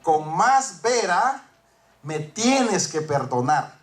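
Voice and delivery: slow pleading apology. Retold or imitated. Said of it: "La misma señora le dice a él".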